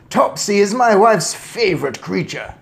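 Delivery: loud, high protest; distressed cry. A narrator's reading. Father defends wife's cat, crying out. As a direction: plead loudly for the cat. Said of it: "cried Mister Jenkins".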